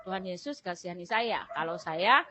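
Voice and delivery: soft, faint plea to God; barely above a murmur, begging for help; weak pleading prayer. Retold or imitated. Sick mother softly begging Jesus for help, faint and weak. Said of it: "saya bilang".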